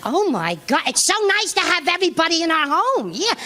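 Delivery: lightly voiced, chirpy Edith Bunker; a hint of sweet Edith Bunker; mild Edith Bunker cheer. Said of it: "She walks out like Edith Bunker".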